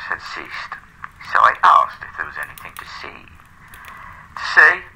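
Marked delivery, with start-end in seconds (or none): 4.3-4.8 incredulous butler. A narrator's reading. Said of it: "said my butler".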